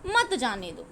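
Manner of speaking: "मत जाने दो" as one low, falling phrase; phrase after pause. Shown as a demonstration. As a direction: keep मत with जाने दो, dropping to दो. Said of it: "विराम चिन्ह लगा है तो हमें रुकना है".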